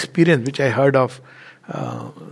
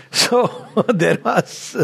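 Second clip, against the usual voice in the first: laughing; 4 semitones higher, much slower than usual. Real, not acted. Laughing after the limerick.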